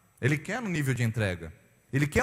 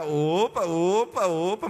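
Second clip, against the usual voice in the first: mock alarm; 3 semitones higher, 4 dB louder, much slower than usual. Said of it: "você começa a ficar".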